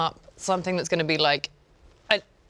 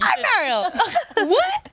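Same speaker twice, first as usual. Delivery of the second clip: squeaky high greeting; 4 dB louder, slower than usual. Pretend.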